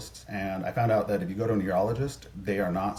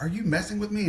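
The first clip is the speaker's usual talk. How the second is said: imitating freaked-out wife; 11 semitones higher than usual. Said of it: "She freaks out".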